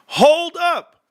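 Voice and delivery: high, loud laugh-broken hold up; trying to talk through laughter. Real, not acted. Cracking up at own story.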